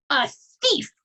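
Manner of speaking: high, loud screamed accusation. A narrator's reading. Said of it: "the Trunchbull screamed".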